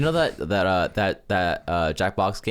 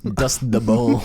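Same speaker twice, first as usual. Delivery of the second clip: slow, louder laugh-through echo; laughing repeat; 4 dB louder, much slower than usual. Real, not acted. Friend repeating the archaeologist joke, laughing slowly. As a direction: savor the joke while cracking up.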